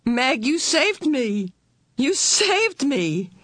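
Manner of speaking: put-on high, slow child voice; a little boy overwhelmed with relief; boy thanking his sister, high and slow; grateful child. A narrator's reading. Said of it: "he said over and over".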